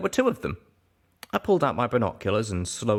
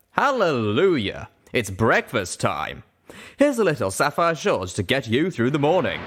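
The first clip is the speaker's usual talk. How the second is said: belting radio DJ; 4 semitones higher than usual. Acted. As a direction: belt it over the airwaves. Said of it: "the little grey unicorn's voice belted over the airwaves".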